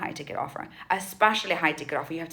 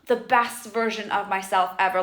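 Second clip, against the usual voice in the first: mock lofty self-talk. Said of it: "we don't talk like this".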